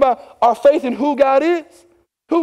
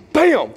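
imitated crash; 5 semitones higher than usual. Narrating four-wheeler crash.

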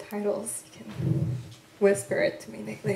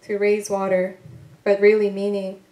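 measured, unhurried poetry voice with weighted pauses; poem reading. Acted. Poet reading her work to an audience, measured and deliberate. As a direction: let each line land like a spoken poem.

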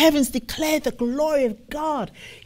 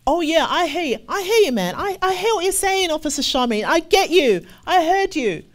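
much higher easygoing "I hear you, man"; mock casual agreement; 7 semitones higher, 3 dB louder than usual. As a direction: brush him off with breezy promises. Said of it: "If you say that you understand".

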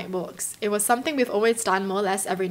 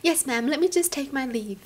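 higher-pitched, lightly put-on politeness; mock-polite intruder; 4 semitones higher than usual. Reader mocking the intruder's exit, mock-polite. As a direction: play at bowing out courteously.

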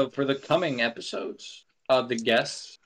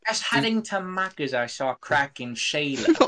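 bad Australian impression; slower than usual. American podcaster fakes an Australian accent, sounding British. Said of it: "That impression's so bad".

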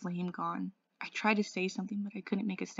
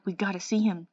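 shaking voice; 8 dB louder than usual. Acted. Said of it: "His voice was shaking".

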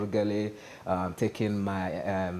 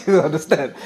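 asked through a real laugh; 6 semitones higher, 8 dB louder than usual. Real, not acted. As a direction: chuckle while asking. Joke about gold spoon.

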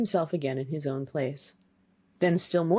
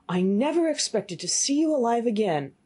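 higher, amazed innkeeper's voice; astonished innkeeper; 5 semitones higher than usual. Acted. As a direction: marvel at him in a raised voice. Astonished innkeeper sees the youth alive.

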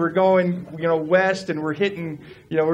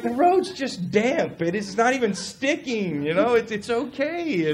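mock reassurance; 5 semitones higher than usual. Retelling his answer to frightened wife, protesting reassurance. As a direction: play the unbothered driver brushing off worry. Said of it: "I'm like".

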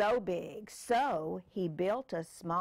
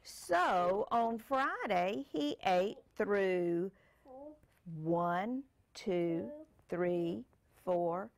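put-on reading to a child; slower than usual. Parent reads picture book aloud.

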